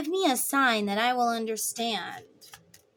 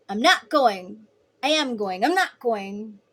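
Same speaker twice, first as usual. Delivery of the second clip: Grinch dithering; 3 dB louder than usual. Retold or imitated. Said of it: "makes up all these different excuses".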